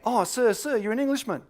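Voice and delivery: high-pitched eager schoolkid; imitated excited student voice; excited pupil. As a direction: call out the guess like a keen pupil. Students guessing the impression.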